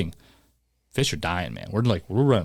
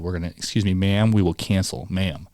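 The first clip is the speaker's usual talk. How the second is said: polite; 2 semitones lower than usual. Retold or imitated. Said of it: "I was very nice about it".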